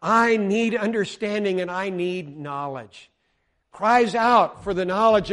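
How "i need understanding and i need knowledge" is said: raised-voice plea to God; mildly acted cry for help. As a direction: lift your voice in earnest prayer. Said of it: "he's crying out".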